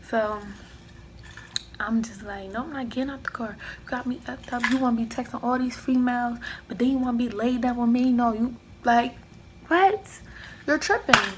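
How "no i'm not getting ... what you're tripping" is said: arguing back. Retold or imitated. Telling off her ex in the car, building to a yell.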